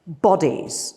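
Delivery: "Bodies" set apart by pauses as a key word; deliberate stress. Real, not acted. Workshop leader asks group to look for bodies, deliberately stressed. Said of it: "deliberately stress this word".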